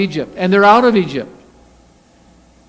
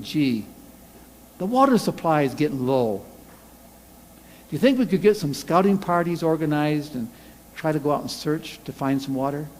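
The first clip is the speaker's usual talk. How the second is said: calm polite suggestion; 4 dB quieter than usual. Acted. Reasonable alternative request.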